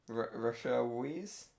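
Rachel said as "ra-SHELL", Weisz as "weeze"; hesitant, slow go at Rachel Weisz as "ra-shell weeze"; unsure mispronunciation. Real, not acted. Co-host reads the spouse's name off the screen, unsure mispronunciation of Rachel Weisz. Misreads the name, gets corrected.

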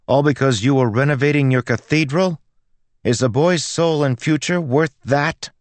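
high, loud belligerent challenge. A narrator's reading. Girl takes the priest to task in church, belligerent. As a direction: hurl accusing questions. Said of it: "as she grew belligerent".

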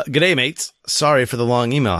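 lightly attempted Australian accent. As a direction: have a clumsy go at sounding Australian. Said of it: "how is my my Australian accent".

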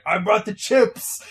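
loud, slow excited announcement; Thing bringing chips. Retold or imitated. The Thing arriving at poker night, loud and excited. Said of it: "so the Thing is like".

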